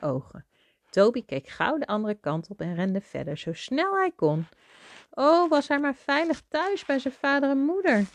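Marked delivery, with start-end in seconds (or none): 5.1-8.0 high, sustained plaintive narration; plaintive wishing. A narrator's reading. Mother reading about lost Toby longing for home, high plaintive wish. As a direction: lift the voice into a wistful wail.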